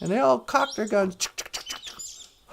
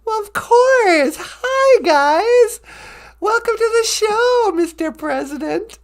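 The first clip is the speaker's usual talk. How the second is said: high, loud, stretched-out welcome; gushing host; 9 semitones higher, 7 dB louder, slower than usual. Pretend. Host welcoming the President to the show, gushing. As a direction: make a big showy fuss of the guests. Host greets famous mock callers.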